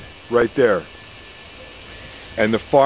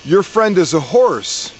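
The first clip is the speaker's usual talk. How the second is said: higher, slow, ominous fortune teller; witch's revelation; 5 semitones higher than usual. Acted. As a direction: pitch it up and lean on each word like a seer. Witch reveals the vision.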